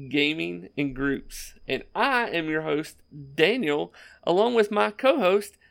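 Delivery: show host intro. Acted. Podcast intro.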